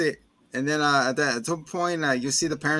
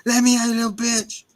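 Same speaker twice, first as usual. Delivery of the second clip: raised, louder panicked shouting; mock angry yell; 8 semitones higher, 5 dB louder than usual. Sitter locked in the attic, a hammed-up angry yell. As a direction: pound the words like he's trapped. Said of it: "He's like".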